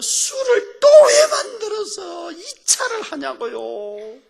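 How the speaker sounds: high, slow, loud mock wail; acted crying protest. Preacher reliving his complaint to Jesus, wailing. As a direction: bawl it out as a retold complaint. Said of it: "그래서 제가 울었다니까요".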